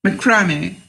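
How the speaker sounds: macrame with the stress on the middle syllable; muh-KRAH-mee, long middle "ah"; English pronunciation queried. Shown as a demonstration. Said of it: "do they say".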